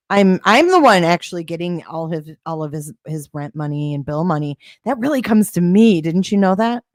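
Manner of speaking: sarcastic mock confession; total sarcasm. Real, not acted. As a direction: own up to it with obvious sarcasm. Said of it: "That's total sarcasm".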